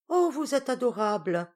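high, loud burst of delight; delighted exclamation. A narrator's reading. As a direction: cry out like a thrilled young girl. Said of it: "s'écria la blonde petite friponne".

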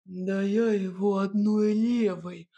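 медленно, с ухмылкой; хвастает силой с ухмылкой; ухмылка богатыря. A narrator's reading. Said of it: "ухмыльнулся богатырь". (бахвальство богатыря, медленно)

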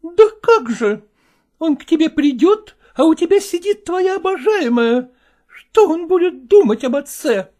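high, nagging wife's voice, reproaching him; reproachful wife. Acted. Wife reproaching her husband over his new things, high and nagging.

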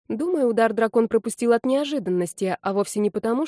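usual speaking voice

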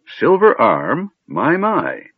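high, drawn-out marvelling; befuddled old mage. A narrator's reading. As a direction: marvel like a dotty old man.

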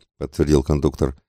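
ordinary delivery

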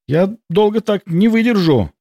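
high, strained voice under effort; strained moan. A narrator's reading. Milena holding the shield under fire, strained moan. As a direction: moan it out as if at the limit of her strength. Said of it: "простонала она".

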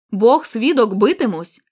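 defiant vow. Acted. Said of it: "сказав він".

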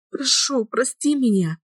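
high, pleading apology; remorseful plea. A narrator's reading. Girl begs her lover to forgive her, remorseful high plea. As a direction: beg forgiveness from the heart. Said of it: "раскаивалась я".

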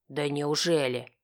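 ordinary delivery

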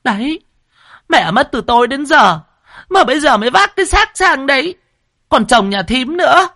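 high, loud, shrill-sounding scolding; reproachful. Acted. Brother and wife reproaching the pregnant sister-in-law, accusing. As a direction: blame her for coming late. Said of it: "quay sang trách móc".

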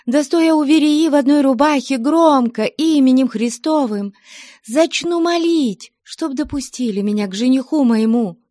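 put-on a high young girl's voice, pleading and rising; Nastya's pleading. Nastya daring her aunt the abbess, high and pleading. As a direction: beg with a challenge in it.

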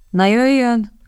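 softening out of sympathy; softened voice. A narrator's reading. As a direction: soothe her tenderly. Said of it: "Redcliffe hangja ellágyult".

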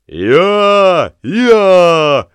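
high, loud braying "Я, я, я"; donkey bray. A narrator's reading. Bargeman braying like a donkey. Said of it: "ревел судовщик".

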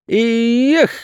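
high sharp cry of despair. Acted. Goat kicking the crooks, despairing yelp. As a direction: let out a desperate yelp. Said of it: "крикнул Матвей в отчаянии".

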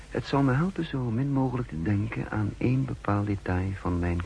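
calm inward narrator voice, set apart from the dialogue; story narration. A narrator's reading. Narrator looking back on lunch with Lillet, calmly told. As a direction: tell it like a memoir read aloud. First-person narration between scenes.

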